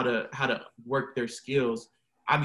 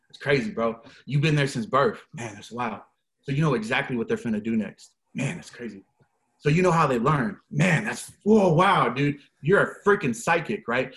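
sarcastic mock awe; 5 dB louder than usual. Mocking teachers who think they know students' whole lives, sarcastic awe. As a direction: fake wonder that peaks in a loud whoa.

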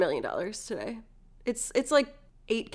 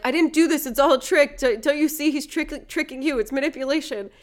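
higher, louder mock panic; freaking out; 4 semitones higher, 3 dB louder than usual. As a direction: plead frantically, imitating a panicked prince. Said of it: "like, freaking out 'cause he's like".

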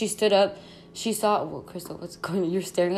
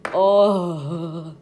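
long, loud groan of realization; disgusted groan; 6 dB louder than usual. Real, not acted. Realizing how the possum got inside, disgusted groan. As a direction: groan as the creepy truth sinks in.

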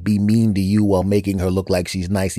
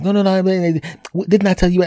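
high, louder panicked protest; flustered protest; 10 semitones higher, 4 dB louder than usual. Retold or imitated. Him at her door protesting, high and flustered. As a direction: squeak out a flustered denial. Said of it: "And I'm like".

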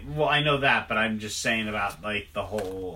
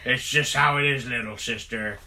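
lightly voiced brooding superhero; a hint of a tough-guy superhero; Bat Jon voice; 5 dB louder than usual. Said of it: "That's my Bat Jon impression".

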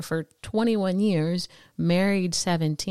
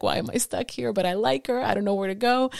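higher-pitched imitation of a torn boyfriend; mock bewildered protest; 5 semitones higher than usual. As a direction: voice his helpless confusion, pitched up a little. Retelling husband's reluctant inner protest.

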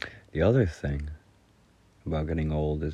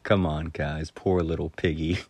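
understated mock reproach; dry humor. Retelling how the teacher chided the class, dry humor. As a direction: dryly imitate a disappointed teacher. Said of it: "it was the way he said it".

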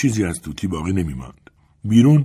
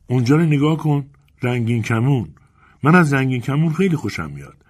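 put-on higher, delighted child-like voice; excited little girl; 6 semitones higher, 4 dB louder than usual. A narrator's reading. Girl points out rainbow.

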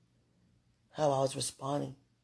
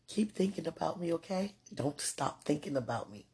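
tender; 3 semitones higher, 5 dB quieter than usual. Real, not acted. Tender message to partner.

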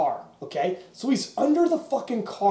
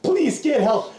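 mock desperate plea. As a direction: plead for help through the pain. Pinned man pleading, laughing.

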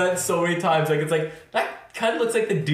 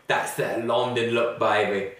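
lower, slow mock British delivery; bad British accent; 4 semitones lower, slower than usual. Friend quoting the jingle stuck in her head, mock British accent. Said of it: "in a really shitty British accent".

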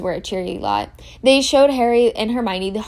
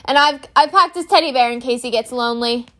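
a hint of doting Hagrid, louder; Hagrid fussing; 3 semitones higher, 5 dB louder than usual. Hagrid telling the children about the dragon's teddy, mildly doting. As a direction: fuss over the packing fondly.

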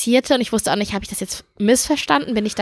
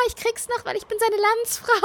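pleading; 11 semitones higher, 4 dB quieter than usual. Retold or imitated. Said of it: "So schlecht".

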